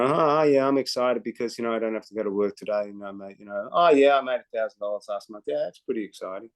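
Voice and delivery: low, fast, offhand mock reply; unexcited. Mocking a lukewarm distributor, low and offhand. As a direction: toss it off like it's nothing. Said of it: "No, no, no, no".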